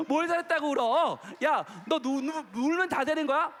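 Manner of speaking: lightly voiced exasperated mother; scolding mom. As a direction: act out a mother telling off a child. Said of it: "혼나요".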